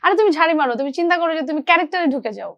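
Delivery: mildly urging, imitating a supportive senior actor; retelling encouragement. Senior actor telling junior to scold him, retold encouragement. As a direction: talk a junior out of their fear. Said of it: "আমার ভয়টা ভেঙে দিচ্ছে".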